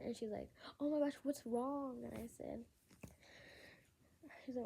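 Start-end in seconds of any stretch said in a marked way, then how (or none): 0.8-2.0 higher, louder retold worried question; alarmed sister. Sister asking a crying sibling, alarmed.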